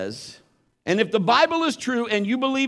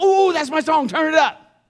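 high, loud delighted outburst; excited music fan; 9 semitones higher, 5 dB louder than usual. Acted. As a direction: whoop as your favourite song comes on. Acts out hearing favourite song.

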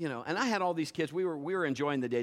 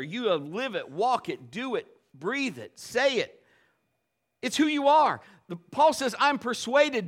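louder, higher sermon climax; full-force preaching; 6 semitones higher, 6 dB louder than usual. Acted. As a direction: preach it to the congregation with fire.

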